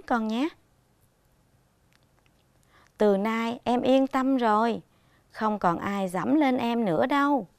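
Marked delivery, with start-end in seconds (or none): 3.0-7.5 tender, caring. Acted. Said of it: "Con đọc với giọng ân cần, trìu mến".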